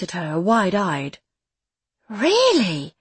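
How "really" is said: put-on surprised child. Wide-eyed boy surprised.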